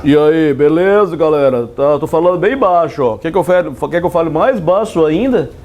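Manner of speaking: put-on deep, low voice; low-pitched reply to the class; speaking low. Shown as a demonstration. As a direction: drop the voice low for a comic demo. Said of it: "Professor, fale mais baixo".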